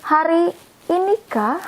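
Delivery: "hari ini kah?" lifted high, falling on ini. Shown as a demonstration. Teacher showing students how to ask "hari ini kah?", high and falling. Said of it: "We say it with".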